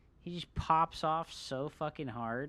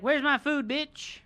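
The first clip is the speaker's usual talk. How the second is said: cat's voice; 7 semitones higher, 8 dB louder than usual. Retold or imitated. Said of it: "She's like".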